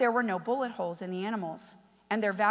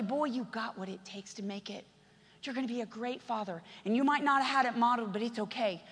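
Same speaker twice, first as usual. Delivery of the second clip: tender reassurance. Retold or imitated. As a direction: gently build him up. Mentor speaks tenderly to boy.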